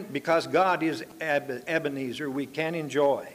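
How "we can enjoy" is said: "enjoy" given weight, then let fall; stress on enjoy. Real, not acted. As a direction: lean on the word "enjoy" with a falling finish. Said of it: "I want to emphasize that word enjoy".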